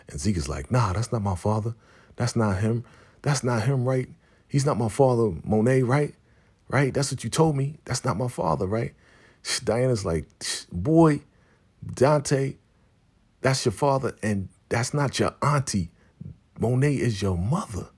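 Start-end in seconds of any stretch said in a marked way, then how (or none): 0.7-8.9 higher, insistent mock pleading; retold anxious denial. Zeke asks Monet about his father, pleading denial. 10.7-17.9 high, emphatic mock put-down; retold blunt reveal. Diana tells Zeke who his parents are, emphatic.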